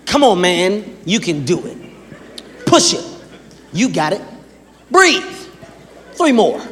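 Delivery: short encouragements with pauses between; motivating trainer. Shown as a demonstration. Personal trainer motivates client through a set, encouraging. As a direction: coach someone through the last reps. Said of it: "an example of a personal trainer's conversation".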